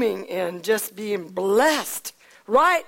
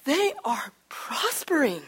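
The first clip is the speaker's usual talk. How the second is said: slow hushed whisper; a servant confides the news to David; secretive whisper; 4 semitones higher, 4 dB quieter than usual. Acted. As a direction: breathe it like a secret.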